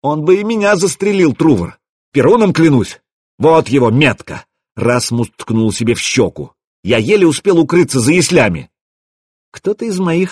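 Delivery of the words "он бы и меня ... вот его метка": high-pitched, indignant protest; acted agitation, pitch raised; agitated accusation. A narrator's reading. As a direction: plead the case heatedly. Rasmus's hysterical accusation continues.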